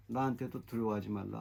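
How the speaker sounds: low, soft murmur; muttering scripture. Shown as a demonstration. Preacher applying God's word to himself, murmured low. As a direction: mutter the promise to yourself. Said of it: "그걸 중얼거리는 거예요".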